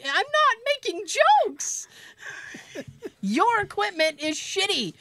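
high, laughing through the words; can't hold it together, giggling. Real, not acted. Patient laughing at the hygienist's broken polisher, laughing high. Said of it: "I'm laughing my ass off".

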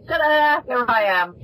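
high, playful ta-da; surprise reveal. Acted. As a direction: announce yourself like a magic reveal. Acting out her surprise return.

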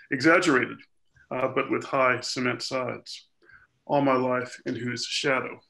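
measured reading of a poem; poetry reading. Acted. Poet reads a dream of their mother's death to listeners, measured poetry reading. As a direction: read it out in deliberate, phrased lines.

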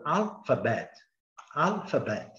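careful "Alphabet", AL stressed, BET kept up; syllable stress demo. Shown as a demonstration. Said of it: "a bet também tem mais ou menos a mesma altura".

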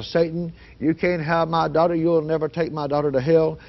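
restrained re-enacted yell at the devil; retold defiant yell. Father rebuking Satan from his porch, retold firm yell. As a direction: push it out firmly, rebuking Satan. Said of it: "I began to yell".

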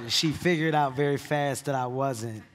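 loud laughter breaking into words; laughing. Real, not acted. Telling the interviewer how mom caught him, laughing. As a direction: laugh out the punchline. Punchline of the Bible story.

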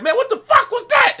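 very high, loud mock outburst; mock yell. Gamer acting out his own rage yell. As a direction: yell it like you just got killed. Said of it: "I be like".

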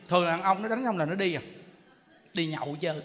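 normal talking voice

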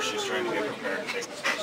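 hushed whisper so she can study. Real, not acted. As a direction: keep it down to a breathy whisper. Hushing others near a studying girl.

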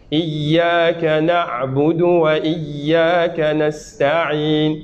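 slow tajwid chant; very slow recitation. Shown as a demonstration. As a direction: draw out Iyyaka na'budu wa iyyaka nasta'in. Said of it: "ayn avec ayn".

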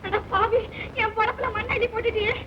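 melengking tinggi, meratap seperti ratapan duka; wailing lament. Acted. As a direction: meraung sedih, suara tinggi dan merintih. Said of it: "ஏன் இப்படி ஒப்பாரி வைக்கிற?".

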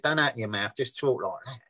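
imitating a tight-lipped gangster; mock Cockney hard man, understated; closed-mouth Cockney coaching. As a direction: talk with the mouth barely open. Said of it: "They do it very soft and slowly".

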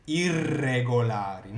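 Irregolari said slowly with each r trilled clearly; rolled r. Shown as a demonstration. Italian teacher showing students the rolled r, slowly. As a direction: roll the r's in Irregolari, taking it slow. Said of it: "bu r'lar geldiği zaman duyuruyorduk".

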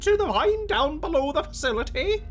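high put-on NPC voice held with effort; a voice you can barely keep up; strained high character voice. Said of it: "maintain this voice much longer".

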